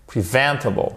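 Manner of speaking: Preventable said pre-VEN-table, second syllable stressed. Shown as a demonstration. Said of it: "votre accent tonique ici sur la deuxième syllabe".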